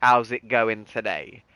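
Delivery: light Cockney greeting; a touch of East End Cockney; Cockney accent. Shown as a demonstration. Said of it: "it's the Cockney accent".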